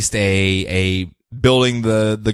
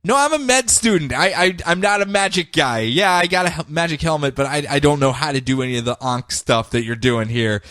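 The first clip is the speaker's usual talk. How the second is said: pitched-up nervous plea; slightly higher anxious stammer; pleading Khalid; 3 semitones higher than usual. Retold or imitated. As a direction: beg for help, flustered.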